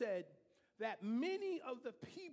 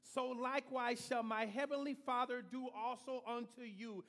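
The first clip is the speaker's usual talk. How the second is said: solemn scripture reading. Real, not acted. Preacher reading King James to congregation, solemn.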